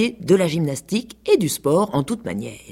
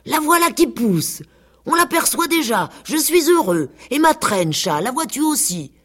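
much higher, thrilled pig voice; overjoyed pig; 10 semitones higher than usual. A narrator's reading. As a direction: burst with joy over the crest.

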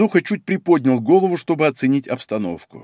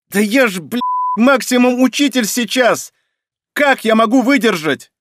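panicked cry; 6 semitones higher than usual. Acted. Boy panics under strain.

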